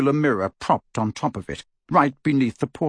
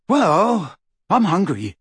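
defensive; 7 semitones higher, 4 dB louder, slower than usual. A narrator's reading. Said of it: "he added defensively".

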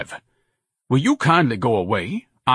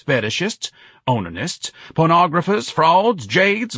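high, indignant roll-call of vices; pompous bellowing denunciation; bellowed tirade; 9 semitones higher, 4 dB louder than usual. A narrator's reading. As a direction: proclaim each item to the whole crowd in outrage. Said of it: "Ignatius bellowed over the crowd".

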